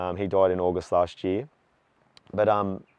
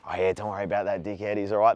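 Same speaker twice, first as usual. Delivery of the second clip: playing along; 4 dB quieter, faster than usual. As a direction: brush it off as a mate backing someone up. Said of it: "play the game like".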